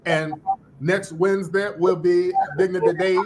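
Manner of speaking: mock orator's cadence; Jesse Jackson. Predicting her next accent for listeners, mock Jesse Jackson impression. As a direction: imitate a preacher-politician giving a campaign line. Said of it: "talking just like Jesse Jackson".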